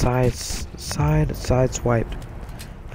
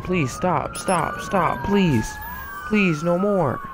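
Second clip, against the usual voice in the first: higher, begging voice of the beaten intruder; pleading intruder; 5 semitones higher, slower than usual. Retold or imitated. Intruder under the umbrella begging the homeowner, lightly voiced higher plea. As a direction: plead with him to stop the hits. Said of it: "this dude's groaning and saying".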